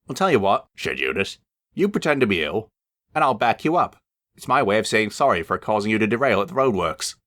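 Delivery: conspiratorial engine; sly scheming voice. Acted. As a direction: plot it slyly. Eunice scheming.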